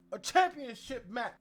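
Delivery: high, loud mock announcement; lightly hammed champion challenge; imitating Jade Cargill. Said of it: "Jade Cargill said".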